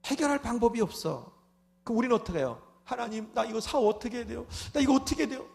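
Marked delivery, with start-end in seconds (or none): 2.8-5.4 anxious pleading prayer. Retold or imitated. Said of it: "맨 이렇게 애타-, 애타는 기도만 하죠".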